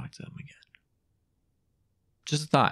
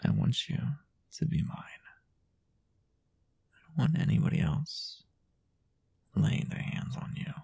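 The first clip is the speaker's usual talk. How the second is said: mock-possessive boyfriend whispering close; jealous boyfriend; 7 semitones higher than usual. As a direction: murmur it like a boyfriend who won't share you. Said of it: "that's what I would say if I was a jealous boyfriend".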